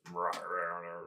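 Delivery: reluctant grumbling rahs. Acted. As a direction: grumble while handing over the sword. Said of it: "and grumbling".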